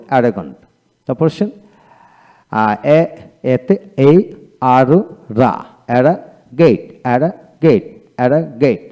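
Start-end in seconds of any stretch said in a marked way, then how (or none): 0.1-0.6 অ্যারাগন্ট said cleanly as the final model word; model pronunciation. Shown as a demonstration. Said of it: "এইভাবে হবে". 6.6-8.8 অ্যারা গেট split into two clear parts; model pronunciation. Shown as a demonstration. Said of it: "এইভাবে হবে".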